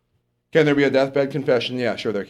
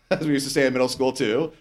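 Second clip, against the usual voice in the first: laughing aside; 3 semitones lower than usual. Real, not acted. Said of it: "Tried not to say it there".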